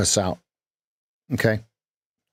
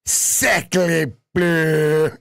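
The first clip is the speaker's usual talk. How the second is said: higher, hammed-up French exclamation; mock French accent; 5 semitones higher than usual. Coach mocks a French exclamation. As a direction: toss it out like a cartoon Frenchman. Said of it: "how Americans think that French speak".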